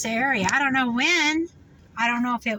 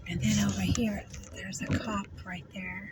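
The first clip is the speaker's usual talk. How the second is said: soft unvoiced whisper; hushed aside while driving past; 3 semitones lower, 5 dB quieter than usual. Real, not acted. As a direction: murmur it under your breath. Quietly pointing out a cop.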